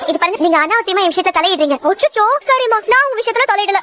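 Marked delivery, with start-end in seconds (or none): 1.9-3.8 higher, exaggerated fake remorse; mock apology. Warden pretending to apologise to a prisoner, mocking. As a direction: sarcastically say sorry.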